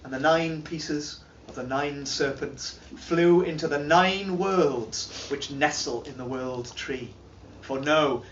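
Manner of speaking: solemn saga teller with sweeping highs and lows; grave epic recital, rising and sinking; dramatic reading. Acted. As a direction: tell it like an old legend to a listening hall. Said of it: "doing a dramatic reading".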